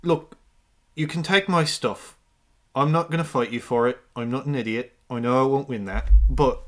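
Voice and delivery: put-on measured, lightly Irish-accented concession; attempted Irish accent. Game master voicing a man who won't fight, attempted Irish accent. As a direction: reason with them in a tentative Irish accent. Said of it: "I need to remember how to do this fucking accent".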